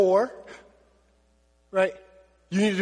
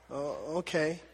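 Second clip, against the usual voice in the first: resigned mock reply; 5 semitones lower, 10 dB quieter than usual. Mock dialogue, giving up.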